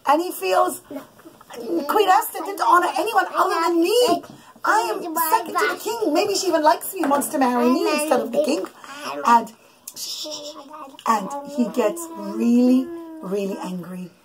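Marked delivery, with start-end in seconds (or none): 1.9-8.7 pitched up, puffed-up villain voicing Haman; boastful Haman. Mother voicing the villain Haman for her kids, pitched-up and boastful. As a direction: play Haman as a preening, self-important braggart.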